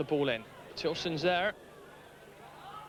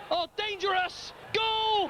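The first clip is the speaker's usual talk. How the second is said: excited goal call. Real, not acted. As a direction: snap out the goal cry. Commentator calls a goal.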